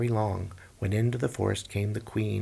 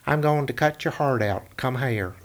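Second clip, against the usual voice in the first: high, louder threatening hunter; menacing hunter; 3 semitones higher, 4 dB louder than usual. Acted. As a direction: menace her cheerfully.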